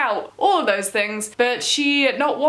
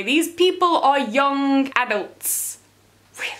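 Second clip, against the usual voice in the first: slow, breathless whisper of disbelief; exasperated whisper; 2 semitones higher than usual. Real, not acted. Reviewer whispering her disbelief at the film's teens, slowly. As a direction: whisper it, slowly, as if you can't believe it.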